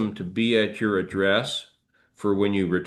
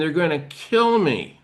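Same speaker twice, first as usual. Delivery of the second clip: mock frantic, hysterical screaming; 7 semitones higher than usual. Retelling how a bus passenger screamed for help: imitating someone screaming.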